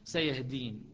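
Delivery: slow recited verse; Quran recitation. Shown as a demonstration. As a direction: chant the verse slowly. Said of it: "قال".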